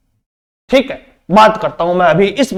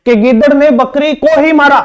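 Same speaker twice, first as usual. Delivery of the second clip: को ही pressed with a falling tune; teacher shows emphasis on बकरी को ही; stress on को ही; 3 semitones higher than usual. Shown as a demonstration. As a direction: lean on को ही. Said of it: "इस पर बल दे रहा है".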